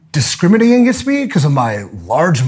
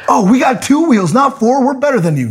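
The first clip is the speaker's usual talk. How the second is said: higher, mocking superior tone; mocking snob; 8 semitones higher than usual. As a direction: mimic a smug cyclist. Mocking cyclists' attitude.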